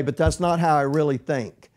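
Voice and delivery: ordinary delivery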